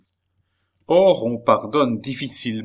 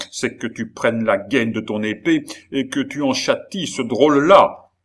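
furious; 3 semitones higher, 4 dB louder than usual. Acted. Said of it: "pâle de fureur".

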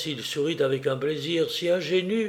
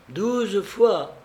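higher-pitched eager exclamation; exclaiming; 6 semitones higher than usual. A narrator's reading. Felipe answers the guest about his sister's scolding, exclaiming. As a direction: cry out the count eagerly. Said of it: "s'écria-t-il".

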